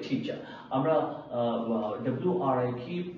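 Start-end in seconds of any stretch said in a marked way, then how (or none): 0.1-0.4 টিচার ending in a long open "chaa"; silent final R. Shown as a demonstration. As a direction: say টিচার as "tee-chaa", R dropped. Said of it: "বাদ যায়".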